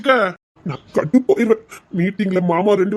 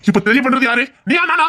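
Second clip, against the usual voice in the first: angry retort; 5 semitones higher, 4 dB louder than usual. Acted. Heated quarrel with wife.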